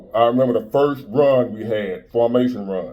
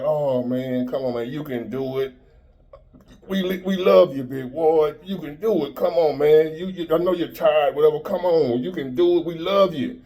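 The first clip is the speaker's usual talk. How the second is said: higher, sugary coaxing voice; mock sweet encouragement; 4 semitones higher than usual. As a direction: coo it like fake cheerleaders. Imagined soft encouragement, mocking.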